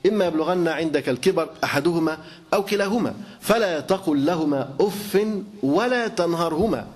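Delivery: slow, measured chanting of the verse; Quran recitation. Acted. Preacher reciting the verse to his listeners, slow solemn recitation. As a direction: recite it with reverence, drawing out the words.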